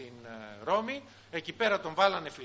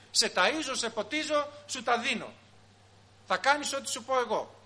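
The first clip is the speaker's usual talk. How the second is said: bossy parent; 5 semitones higher than usual. Acted. Parent pulling rank on child.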